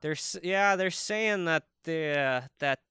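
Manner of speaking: put-on hesitant, rambling Minnesotan accent; totally Minnesota. Minnesotan musing about ice fishing, hesitant Minnesota accent. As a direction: think it over aloud in a Minnesota accent. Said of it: "that's totally Minnesota".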